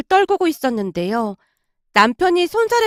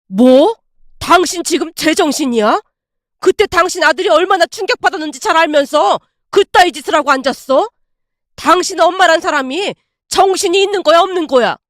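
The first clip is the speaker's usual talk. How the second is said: angry scolding; 3 semitones higher, 3 dB louder than usual. Acted. Father-in-law scolding his wife.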